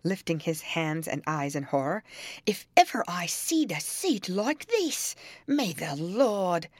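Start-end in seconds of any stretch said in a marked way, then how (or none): 2.5-6.7 high pious outcry, slowing off; old servant crying to heaven; horrified old servant. A narrator's reading. Joseph appalled, invoking the Lord.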